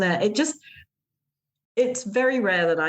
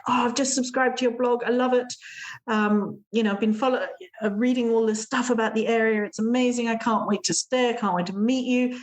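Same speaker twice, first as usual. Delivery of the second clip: gushing guest; 5 semitones higher than usual. Retold or imitated. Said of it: "it's like".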